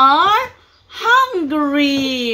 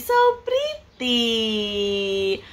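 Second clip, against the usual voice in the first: soft admiring; 3 semitones lower, 4 dB quieter, much slower than usual. Real, not acted. Mother admiring doll with toddler.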